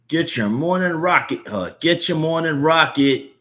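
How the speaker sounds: high-pitched street vendor's cry; newspaper seller calling out. Acted. Newsboy hawking the morning Rocket to passers-by, high calling voice. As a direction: call out the paper to passers-by.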